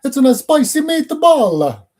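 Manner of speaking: high, loud, slow hammed-up Italian accent; over-the-top cartoon Italian accent; terrible Mario Italian accent. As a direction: belt it out like a cartoon Italian plumber. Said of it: "I can't probably do an Italian accent".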